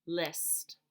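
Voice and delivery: "List." whispered, unvoiced; whispered word. Shown as a demonstration. Teacher whispering the word for children. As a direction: breathe "List." softly. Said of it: "repeats word in different ways".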